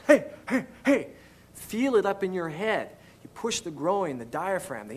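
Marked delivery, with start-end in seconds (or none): 0.0-1.1 pushed vocal demo. Shown as a demonstration. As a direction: bark out "Hey" from the diaphragm. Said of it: "You push with the supporting muscles".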